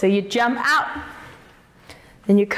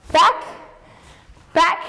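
both backs called higher and louder; called counts; 4 semitones higher, 4 dB louder than usual. Real, not acted. Teacher calling the steps to the dancers, higher and louder. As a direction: call the beat for the class.

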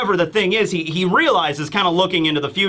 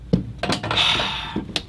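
sigh; 5 dB quieter than usual. Retold or imitated. Kuma's weary reaction, acted.

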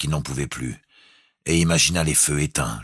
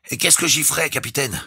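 high trembling voice, soaked and shivering; shaky bleat; 12 semitones higher than usual. A narrator's reading. Jukes, drenched and shivering, asks the captain, bleating. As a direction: bleat it out, teeth chattering. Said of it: "fit vibrer la voix de Jukes comme un bêlement".

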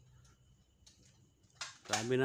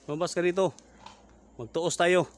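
loud, higher call into the dark; challenging shout; 5 semitones higher, 5 dB louder than usual. Real, not acted. Ghost hunter shouting at the aswang to come out. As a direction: order the creature out.

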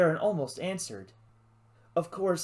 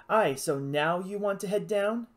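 complaining; 5 semitones higher, 3 dB louder than usual. Acted. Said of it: "she complained".

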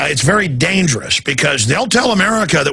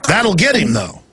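mock-hopeful sarcasm; sarcastic; 2 semitones higher than usual. Host needling his guest about invasion plans, sarcastic. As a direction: propose it with tongue in cheek. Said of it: "Of course, I'm being sarcastic".

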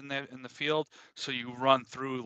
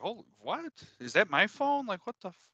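high-pitched disbelief; retold surprise; 8 semitones higher than usual. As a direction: act out being caught off guard, pitched up. Startled by phone's pace readout, retold.

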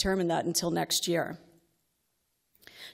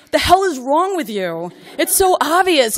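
much higher and louder, exasperated; exasperated shout; 9 semitones higher, 11 dB louder than usual. Retold or imitated. Mother venting at daughter's test silence, exasperated shout. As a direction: scream it at the top of your lungs. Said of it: "I want to blurt out".

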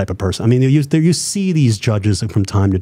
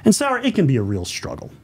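radio voice. Shown as a demonstration. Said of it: "I do my radio voice".

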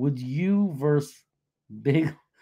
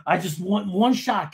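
Nick; 4 semitones higher than usual. Retold or imitated. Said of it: "He'd be, like".

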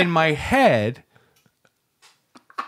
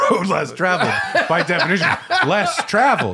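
laughing as you echo it back; amused, giggling through the repeat; chuckling over the phrase; 4 semitones higher than usual. Real, not acted.

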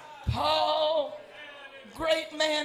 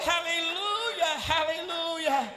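preaching at full force. Acted. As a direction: preach it out to the congregation.

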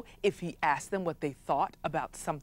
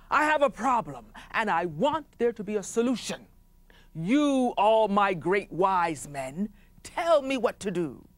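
chief commanding. Acted. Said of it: "he sat on his throne and he said".

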